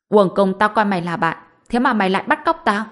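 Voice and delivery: hurt, furious accusation; bitter anger. Acted. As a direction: spit it out in betrayed rage. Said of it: "Diệp Băng Bồng căm hận nói".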